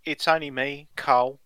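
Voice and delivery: playful mock Aussie greeting to a mate; light hammed-up Australian accent. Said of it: "come out with an Australian accent".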